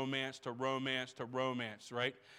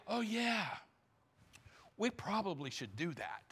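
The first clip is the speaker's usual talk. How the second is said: mock lazy, softer aside; half-hearted shrug; 6 semitones higher, 6 dB quieter than usual. Pastor mocking a lukewarm believer, mock half-hearted shrug. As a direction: toss it off like you don't care. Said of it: "you say".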